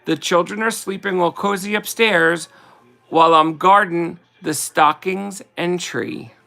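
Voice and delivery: slow, sing-song verse reading; slow Christmas card recital; poem reading. Acted. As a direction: read it like a greeting card poem, unhurried. Reads Christmas poem aloud.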